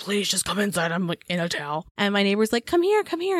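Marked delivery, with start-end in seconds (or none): 0.0-1.9 gently pleading. Retold or imitated. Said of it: "trying to not sound like a monster". 2.7-3.4 calling out. Retold or imitated. Neighbor calling over.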